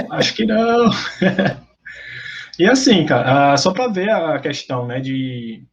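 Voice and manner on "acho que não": resposta entre risos, voz mais aguda; rindo. Real, not acted. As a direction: responder achando graça da provocação. Rindo da provocação do colega. (dando risada)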